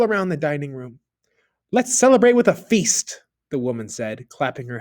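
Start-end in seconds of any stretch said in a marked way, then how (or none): 1.7-3.2 higher, eager call for a feast; bubbling over with glee at the gold; wife thrilled, proposing a party; excited. A narrator's reading.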